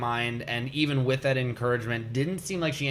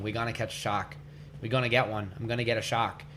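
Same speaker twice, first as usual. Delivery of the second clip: put-on New York accent; 3 semitones lower, 5 dB quieter, faster than usual. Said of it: "He's got the thick New York accent".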